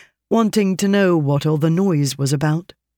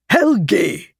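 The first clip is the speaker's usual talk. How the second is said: a joyful, louder, higher whoop of the name Helgi; whooping shout; 5 semitones higher, 3 dB louder than usual. Acted. Burger whoops the name Helgi at his old friend. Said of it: "with a whooping shout".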